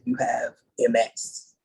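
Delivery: put-on slow, heavy Indian accent.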